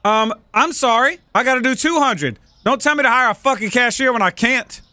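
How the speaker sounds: snapping back at a nagging prompt; mild angry rant. Real, not acted. Annoyed at the game's advice, an angry outburst. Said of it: "I got a little angry".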